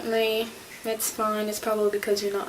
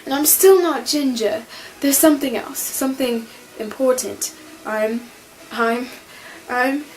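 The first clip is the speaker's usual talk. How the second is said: Eleven; 2 semitones higher, 5 dB louder than usual. Acted. Fan quotes the newly regenerated Doctor, excited and flustered. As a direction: panic playfully, then grope for the important thing. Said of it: "first words represent themselves, it's Eleven".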